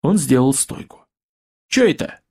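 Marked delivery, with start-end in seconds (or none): 1.7-2.2 high, startled question; surprised. Acted. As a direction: pitch it up in surprise. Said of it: "удивился Паша".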